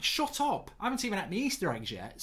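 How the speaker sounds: high, incredulous shut-up; squeaky outraged brush-off to an eager coworker; mock exasperated retort. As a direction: scoff at someone planning way too early.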